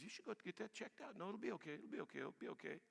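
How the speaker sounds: hushed self-reassurance. Retold or imitated. Preacher voicing the inner voice that brushes off a skin spot, hushed. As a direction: talk yourself out of it under your breath.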